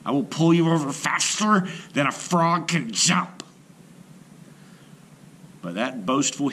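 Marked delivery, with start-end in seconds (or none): 0.0-3.4 high, loud bragging hippo; booming boast. A narrator's reading. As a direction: brag she'll win fast.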